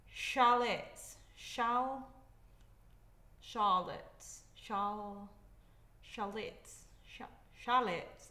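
Charlotte said as SHAR-lot, tripping on shal; stumbling on Charlotte. Shown as a demonstration. Vlogger mixing up shallots with Charlotte, stumbling. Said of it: "Oh, I can't".

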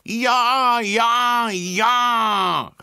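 very high, loud excited cheering; children cheer eagerly to help; enthusiastic children. Acted. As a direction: shout it like thrilled kids. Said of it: "riefen die Kinder begeistert".

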